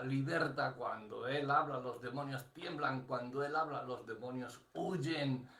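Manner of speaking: rhythmic sermon cadence with stressed key words; preaching. Real, not acted. Preacher tells the congregation of God's power, emphatic preaching cadence. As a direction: preach it in insistent parallel phrases.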